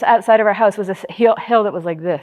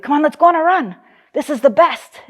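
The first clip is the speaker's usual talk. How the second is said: higher, lightly mimicked pep; keen dad; 5 semitones higher than usual. Dad urging daughter out on a January run, mimicked keenness. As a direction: urge them out with mock enthusiasm.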